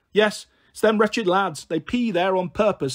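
slow, lightly voiced grumbling pensioner; grumbling old woman. Old Kath complaining about the lads, slow mild grumble.

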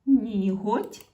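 "Ніготь" said loud, with a clear г; loud teacher model of "Ніготь"; check word. Shown as a demonstration. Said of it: "Перевіряємо".

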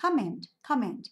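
"comment" slowly, stressed on COM; slow English "comment", leaning on the first syllable. Shown as a demonstration. Teacher repeating the right version for students, "comment" stressed on COM. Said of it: "âm tiết số một nhá".

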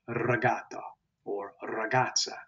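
regatta and ragazza opening on a rolled r; trilled R. Shown as a demonstration. Teacher showing the Italian R, regatta and ragazza trilled. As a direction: roll the first r of regatta and ragazza. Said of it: "it is trilled".

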